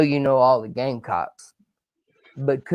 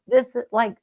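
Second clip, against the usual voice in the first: high, loud burst of enthusiasm; too excited; 9 semitones higher, 3 dB louder than usual. Real, not acted. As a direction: gush at the top of your range. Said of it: "I'm just too excited".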